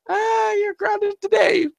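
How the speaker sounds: slow, sing-song gotcha; smug dad. Retold or imitated. Dad punishing son.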